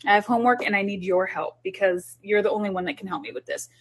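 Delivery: mild inviting parent voice; gently enlisting the kids; asking kids for help. Shown as a demonstration. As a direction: warm it up like you really need them. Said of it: "sit down with their kids and say".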